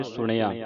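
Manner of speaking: ਸੁਣਿਆ with a clear retroflex ਣ; careful ਣ, not plain n, in ਸੁਣਿਆ; retroflex N sound. Shown as a demonstration. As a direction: curl the tongue for the ਣ in ਸੁਣਿਆ. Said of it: "ਨਾਣੇ ਦੀ ਆਵਾਜ਼ ਉਚਾਰਨ ਹੋਵੇ".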